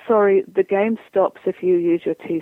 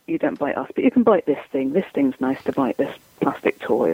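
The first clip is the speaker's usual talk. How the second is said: coaxing puppy; 5 semitones lower than usual. Shown as a demonstration. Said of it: "we've gotta be very good at going".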